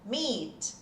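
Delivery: "Meet" with a long ee and a clear final t; model pronunciation. Shown as a demonstration. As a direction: say "Meet" like in nice to meet you. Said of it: "Sabe aquele nice to meet you?". (pronúncia modelo de "Meet")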